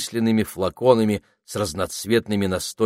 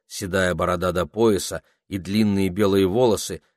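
plain reading voice

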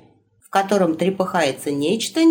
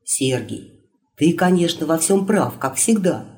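sly; 3 semitones lower than usual. Acted. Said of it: "хитро улыбнулся царевич".

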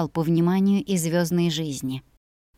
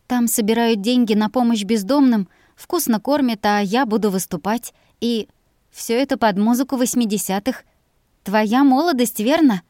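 higher, eager and teasing; lively young woman; 4 semitones higher, 4 dB louder than usual. Acted. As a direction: sell the party with excitement. Mira inviting Jack, lively.

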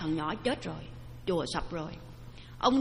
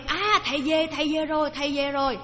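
put-on child cheering; 5 semitones higher than usual. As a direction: cheer as the teacher comes home. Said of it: "có tiếng đứa nhỏ reo lên".

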